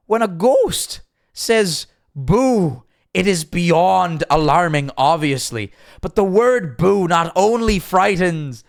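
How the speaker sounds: high, drawn-out, badly Canadian impression; Jordan Peterson. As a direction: stretch each word out in a high, earnest voice. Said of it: "do my best impressions".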